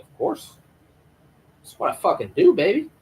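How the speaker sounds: high, showy brag; mock cocky. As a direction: toss it off as a playful boast. Acted smug reply to accusation.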